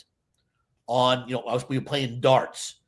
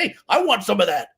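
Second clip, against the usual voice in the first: eager shoppers; 7 semitones higher, 4 dB louder than usual. Retold or imitated. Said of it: "people are like".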